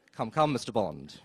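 slow, low mock Bond villain. Quoting a Bond villain, lightly voiced slow menace. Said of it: "Bond villain quote".

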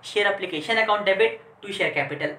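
very slow, each word separate; teacher reading out an entry slowly; slow dictation. Shown as a demonstration. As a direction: dictate the entry for the class to copy. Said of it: "और फिर अगली entry क्या करते थे".

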